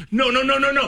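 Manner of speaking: high rapid-fire warning; mock alarm. Boss's assistant warning host behind coworker, mock high alarm. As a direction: imitate a frantic wave-off.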